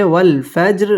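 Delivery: ফাজর ending in a light, thin r; bounced j, then thin r in ফাজর; thin final ra. Shown as a demonstration. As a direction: keep the r of ফাজর unrounded and fine. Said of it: "র এটা বারিক হবে".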